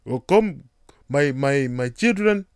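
put-on a self-admitted botched Nigerian accent. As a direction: beckon like a Nigerian parent, badly. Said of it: "botched up Nigerian accent".

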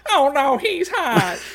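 high, loud, very slow swoon; drawn-out swoon. Acted. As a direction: stretch it out like a lovestruck fan. Quoting the scene again, drawn out.

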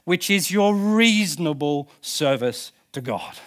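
measured mock-English scripture reading; English accent. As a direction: proclaim it slowly in an English accent. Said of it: "gotta say it in an English accent".

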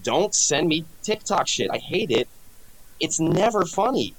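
exasperated, pitch climbing up; fed-up telling off his girlfriend; annoyed. Retold or imitated. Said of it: "I'm like".

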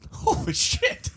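high breathy gasp of awe; amazed whisper. Real, not acted. Reacting to pelican altitude.

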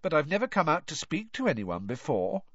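put-on high, whiny girl ghost; Myrtle's ghost voice. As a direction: pitch up into a mopey schoolgirl ghost.

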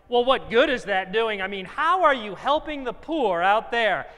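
loud mock challenge; scornful. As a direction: imitate scoffers demanding justification. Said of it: "We knew the scorn of those".

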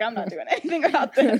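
said through light laughter; amused quote. Retold or imitated. Remus shrugs off the chaos, retold with a laugh. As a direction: chuckle through the line. Laughs while acting bystander.

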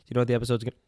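hiccup breaking the sentence; talking between hiccups. Real, not acted. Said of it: "Fucking hiccups".

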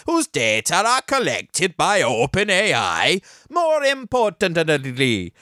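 wobbly mock Italian veering into Welsh; Italian accent turning Welsh. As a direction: attempt Italian, drift towards a Welsh lilt. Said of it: "turned into a Welshman all of a sudden".

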